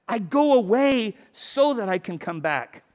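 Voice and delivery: deliberate slow repeat of "I go away so that I can come back"; slow emphatic restatement. Shown as a demonstration. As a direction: spell the point out slowly. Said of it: "That's the whole point".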